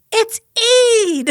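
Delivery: high, loud cry of news; excited announcement. Retold or imitated. Friend waking her to announce Eid, excited. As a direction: burst out with the good news.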